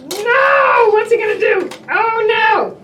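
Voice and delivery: hammed-up panic; mock alarm. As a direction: play up the danger.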